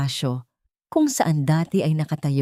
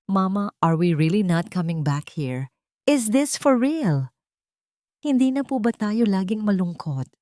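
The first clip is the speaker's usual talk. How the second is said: put-on small girl's voice, unsure but hoping; hesitant hopeful child; 2 semitones higher than usual. Daughter asking her mother if they are really leaving, hesitant child voice. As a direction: ask like a child afraid to believe it. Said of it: "Ang tinig ni Maya ay may halong pag-aalinlangan".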